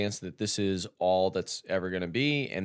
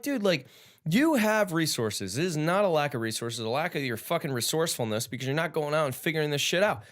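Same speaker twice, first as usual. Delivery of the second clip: retold lecture; 5 semitones higher than usual. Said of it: "And I'm like".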